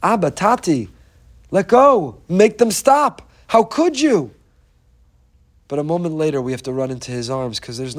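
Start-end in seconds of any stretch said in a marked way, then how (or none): 0.0-4.3 high, loud pleading cry; crying out to Abba. Retold or imitated. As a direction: beg like a child held down. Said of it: "So we're screaming".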